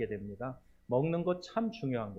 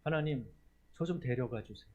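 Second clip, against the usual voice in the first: weary sigh of a prayer; 4 dB quieter than usual. Retold or imitated. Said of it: "그런 기도 해보신 분 있으세요".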